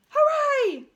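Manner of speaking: high, loud laughing cheer; gleeful loud cheer; cheering hooray. A narrator's reading. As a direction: cheer like the whole team. Team cheered anyway.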